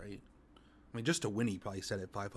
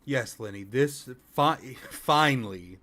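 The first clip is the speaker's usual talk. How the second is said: mock cheering; 3 semitones higher, 10 dB louder, slower than usual. Real, not acted. Host cheers the clip on.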